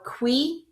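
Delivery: qui said "kwee"; first syllable qui. Shown as a demonstration. Teacher splitting cuillère into parts, the first syllable. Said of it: "first part is going to be qui".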